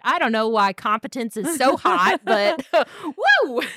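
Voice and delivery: giggly, swooning woo; laughing swoon. Real, not acted. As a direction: melt into a laugh at the end. Swooning over competence.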